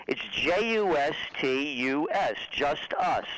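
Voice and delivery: letter by letter, then land the pun just us; J U S T U S spelled slowly, then just us. Shown as a demonstration. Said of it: "misspelling the word justice".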